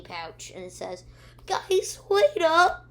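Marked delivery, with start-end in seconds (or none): 1.5-2.9 high, loud call after friends. Retold or imitated. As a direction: imitate shouting for others to wait. Character calls after the others.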